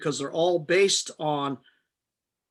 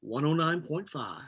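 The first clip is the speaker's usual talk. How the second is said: radio announcer voice; 5 dB quieter than usual. Shown as a demonstration. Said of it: "like the radio station".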